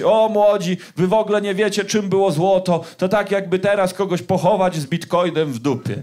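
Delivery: lightly mock the know-it-all elder; condescending mum. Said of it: "jakby chciała powiedzieć".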